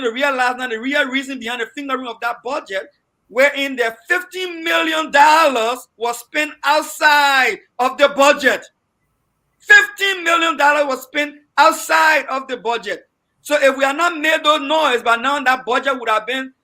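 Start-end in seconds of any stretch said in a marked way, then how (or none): 3.3-15.0 raised, slowed voice hammering each figure; indignant outcry. Real, not acted. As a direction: drive the outrage home. Panelist outraged over misspent budget money.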